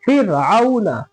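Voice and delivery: फ़िरऔना with a light r after "fi"; thin ra. Shown as a demonstration. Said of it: "पतला पढ़ेंगे".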